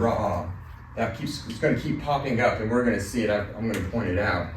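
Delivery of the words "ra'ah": ra'ah said as a long open rah-ah, falling at the end; Hebrew word said carefully. Shown as a demonstration. Teacher telling the class the Hebrew word, ra'ah drawn out. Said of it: "so that's the word".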